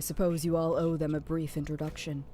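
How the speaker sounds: low, controlled voice of authority; stern commanding leader. Acted. Plays a commanding game character.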